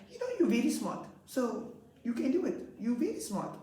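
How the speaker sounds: put-on high, earnest child voice; encouraging child. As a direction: cheer on a classmate. Pupil encouraging classmate.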